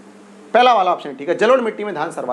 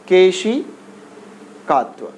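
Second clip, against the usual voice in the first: drawn-out term; much slower than usual. Shown as a demonstration. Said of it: "केशिकात्व के कारण से।".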